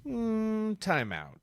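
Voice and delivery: high, soft squeak of protest; mock timeout call. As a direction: play the friend calling time out in a thin high voice. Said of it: "he's like".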